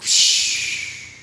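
hushed, dazed hippie hush; laid-back hippie. Retold or imitated. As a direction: driver calming friends after near crash, hushed and dazed. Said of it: "I think I said something like".

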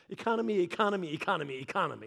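sinking, fading drone; dismissive voice trailing off; mock dismissive. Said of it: "God doesn't look at you and be like".

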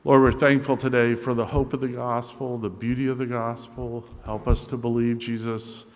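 earnest pastoral prayer voice; a pastor closing the sermon in prayer. Acted. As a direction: pray over the congregation.

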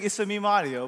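quick, understated mock Italian; a touch of cartoon Italian; Mario's Italian accent. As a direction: toss off the Italian catchphrase lightly. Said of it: "he was saying".

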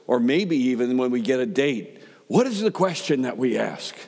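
building preacher's cadence, each question pressing harder; rising sermon questions. Acted. A preacher asks the congregation the big questions, building. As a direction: stack the questions and let them climb.

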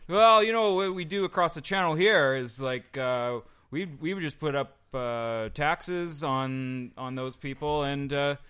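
loud, high mock Cockney; hammed-up Cockney bloke; Cockney accent. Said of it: "that was a Cockney accent".

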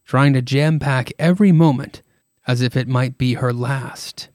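lightly voiced storybook narration; a hint of a somber narrator. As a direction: read it like the show's host. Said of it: "keep going with my narrator voice".

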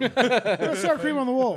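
slow, very loud bellow; mock outraged yell. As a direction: shout the complaint slowly for all to hear. Repeated yelled complaint, slower.

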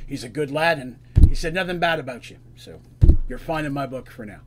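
a touch of an elder Minotaur, firm and approving; lightly voiced old bull giving his blessing; older Minotaur. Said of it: "this is an older Minotaur".

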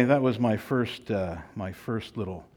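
winded, breathy from rushing; out of breath. Real, not acted. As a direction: speak short of breath after hurrying. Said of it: "I'm feeling out of breath".

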